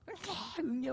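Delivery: high wailing baby cry, mimicked; imitated baby crying. Preacher mimics the baby in the basket, high wailing cry. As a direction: squeal it like a newborn wailing. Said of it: "막 울기 시작해요".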